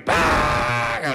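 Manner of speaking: long drawn harsh shriek; animal shriek. Retold or imitated. Cantor screams at the car after Yom Kippur, animal shriek. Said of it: "שצרח כמו חיה".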